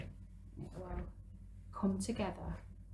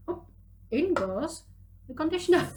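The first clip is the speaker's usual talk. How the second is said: excited announcing; 8 semitones higher, 7 dB louder than usual. Acted. Showing children a playful pour.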